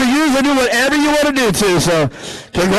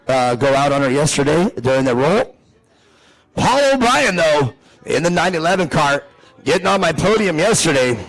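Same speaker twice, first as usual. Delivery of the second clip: lower, measured driver introductions; race announcer; 6 semitones lower than usual. Real, not acted. Announcer introducing the drivers row by row, low announcer delivery. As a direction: present the starting grid over the PA.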